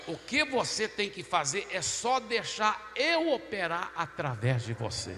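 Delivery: slow, emphatic quoted promise; emphatic divine assurance. Retold or imitated. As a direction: spell it out slowly with weight. God's words voiced in testimony. (promessa dita devagar, com ênfase)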